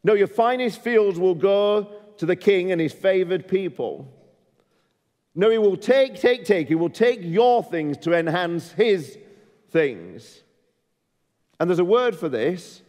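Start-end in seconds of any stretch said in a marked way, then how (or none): 0.0-10.4 higher, urgent warning voice; rising prophetic warning. Retold or imitated. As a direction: warn them they will lose everything. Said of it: "he says".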